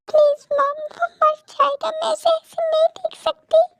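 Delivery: high, anguished begging to mother; desperate plea. Acted. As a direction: implore mother in a high, distressed voice. Daughter fears for her beloved.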